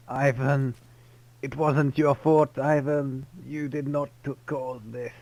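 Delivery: slow, lightly voiced dying guard; a hint of a dying man comforting Ivan; dying guard's last words. Voicing the dying security guard.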